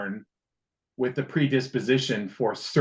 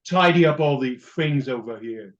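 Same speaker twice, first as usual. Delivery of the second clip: mock Birmingham accent of a salesman. Cohost imitating his Birmingham sales coworker, Birmingham accent. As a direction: ham up a Brummie asking for help. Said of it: "the Birmingham accent".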